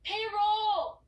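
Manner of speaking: Peror barked high and loud; exasperated shout. Acted. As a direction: snap the ending at him in frustration. Exasperated final correction.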